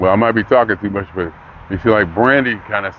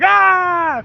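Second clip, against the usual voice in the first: surprised gasp. Retold or imitated.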